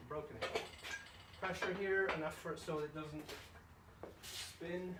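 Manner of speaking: breathless, gasping for air; panting between words; out of breath. Real, not acted. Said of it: "Excuse me being out of breath".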